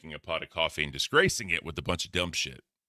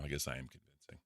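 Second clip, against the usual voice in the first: low, quiet, smooth Bigfoot voice; a hint of a smooth Bigfoot; 3 semitones lower, 13 dB quieter than usual. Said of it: "smooth Bigfoot voice".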